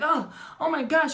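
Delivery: high, loud reenacted shock; startled by pain. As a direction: cry out as if zapped without warning. Retold shock at surprise zap.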